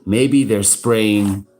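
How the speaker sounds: slow mock child voice. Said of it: "he goes".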